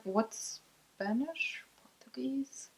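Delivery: soft unvoiced whisper to her husband. Real, not acted. Wife whispering a quick question to her husband. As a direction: breathe the question, no voice.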